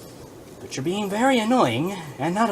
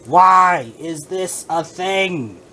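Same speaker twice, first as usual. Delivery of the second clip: exasperated; 2 semitones higher, 8 dB louder, much slower than usual. Real, not acted.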